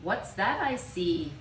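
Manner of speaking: put-on a jolly driver greeting the boy; hammed-up cheerful driver; playful driver. Bus driver teases boy.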